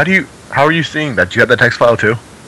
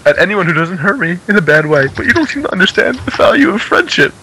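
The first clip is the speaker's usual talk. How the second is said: higher-pitched hammed-up indignant reading; mock indignant; 5 semitones higher than usual. Reading an old chat message to friends, mock indignant. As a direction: read it as a mock wounded protest.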